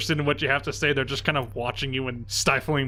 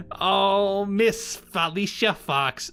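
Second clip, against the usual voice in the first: mocking goon; 5 semitones higher, much slower than usual. Goon mocks laughing.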